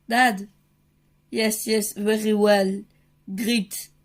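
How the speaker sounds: halting, French-tinged American English; attempted American accent. Dad answering the Disney Studio, attempted American accent. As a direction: try hard at an American accent. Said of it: "mon accent américain s'est vraiment bien amélioré".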